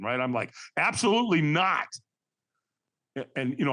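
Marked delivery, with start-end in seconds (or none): 0.8-1.9 firm retort with intensity; higher, emphatic mock refusal; a little ticked off. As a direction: retell it with a touch of irritation. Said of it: "I was a little ticked off at him".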